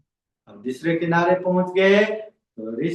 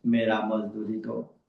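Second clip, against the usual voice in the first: boatman demanding wage; 8 semitones lower, 6 dB quieter than usual. Acted. Boatman demands wage third time.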